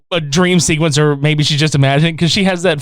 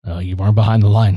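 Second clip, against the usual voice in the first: carny brush-off; 10 semitones lower, faster than usual. Retold or imitated. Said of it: "And the guy's like".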